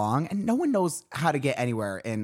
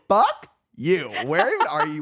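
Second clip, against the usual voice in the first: retold indignation; 2 semitones higher than usual. Retold indignant reply to friend.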